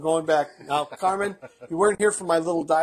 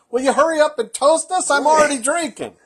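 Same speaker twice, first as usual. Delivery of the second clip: loud, high heckling; hammed-up hurry-up complaint; mock impatience; 9 semitones higher, 6 dB louder than usual. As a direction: imitate impatient viewers, nearly laughing. Impatient viewers, imitated with a laugh.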